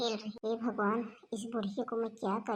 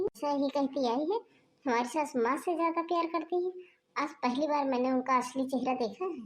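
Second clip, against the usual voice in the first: a hint of an outraged relative complaining; indignant bhabhi; 2 semitones higher than usual. Visiting bhabhi complains, higher voice.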